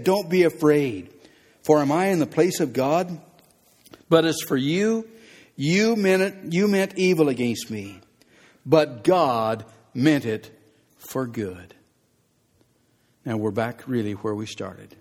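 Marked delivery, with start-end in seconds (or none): 0.0-3.2 forceful preaching. Acted. Preacher repeats Joseph's words forcefully. 4.1-11.8 preaching at full force. Acted. Joseph's climactic declaration preached.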